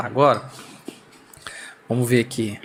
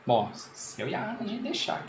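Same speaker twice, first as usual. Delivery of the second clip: marbles in mouth; 4 semitones higher, 14 dB quieter than usual. Real, not acted. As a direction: mouth full, talking while chewing. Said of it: "Falar com a boca cheia aqui no podcast".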